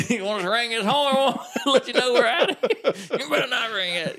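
high-pitched, giggly retold taunt; playful mock back-and-forth; laughing tease. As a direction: act out needling someone through laughter. Teasing exchange about horn, retold.

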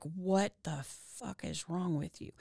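low, quiet, stunned question; hushed shock. Retold or imitated. Husband quietly asking his crying wife what's wrong. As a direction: ask it under your breath, baffled. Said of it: "you're like".

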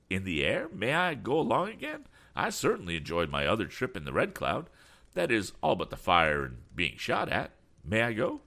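excitable voice with high-pitched questions; eager eccentric. Acted. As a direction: ask eagerly to come along. Damon begs to come along.

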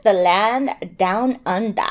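slow, hammed-up Aussie accent; badly faked Australian drawl; attempted Australian accent. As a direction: draw it out in a bad Australian accent. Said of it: "My accents are horrible".

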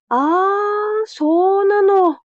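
slow, drawn-out imitation of an old man; lightly voiced elderly shopkeeper; old man's rhythm. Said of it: "もうこ-、こんなリズムで".

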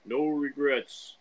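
lightly voiced mock-solemn guide; Native American expert voice. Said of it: "what do you have to say about this".

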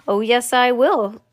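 slow, defiant little voice; Mike TV. Acted. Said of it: "squeaked the tiny voice".

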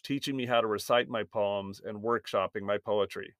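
scripted host introduction, evenly paced; guest bio read. Acted. Host introducing his poetry coach to listeners, formal bio read.

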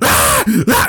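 short mock screams; imitated scream. Girl screaming as she's dragged away, imitated screams. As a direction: imitate a girl's brief screams. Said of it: "and she starts screaming".

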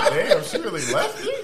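high, laughing mock disbelief. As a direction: laugh through the stunned question. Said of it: "I was like".

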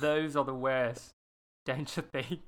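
put-on lightly done Australian accent as Gemma. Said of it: "let me get into my Australian accent".

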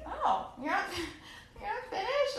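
high, giggly disbelief; mock-innocent surprise, giggling; laughing nervous question. Nervous retold reply, laughing.

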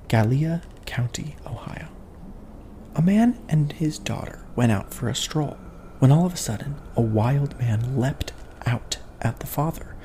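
hushed campfire whisper; spooky storytelling. Acted. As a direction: whisper the tale like a ghost story. Spooky tale of the attack.

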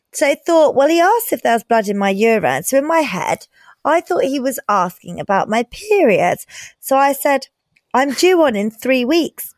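lively letter reading; reading aloud. Acted. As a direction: read it like a story.

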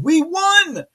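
loud, high, drawn-out "won"; slow, rising crow of victory; triumphant cheer. Real, not acted. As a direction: shout the victory, stretching it out. Cheering a reported election win.

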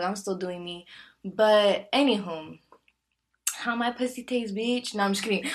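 ordinary talk, nothing marked

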